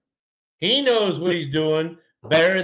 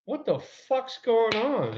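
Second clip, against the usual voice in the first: retold angry question; 8 semitones higher, slower than usual. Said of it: "and I go".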